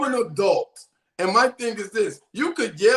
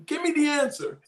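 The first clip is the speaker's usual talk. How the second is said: dad demanding the answer from his son, raised voice; angry dad; 9 semitones higher than usual. Retold or imitated. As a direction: snap at the kid for the answer. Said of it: "I was like".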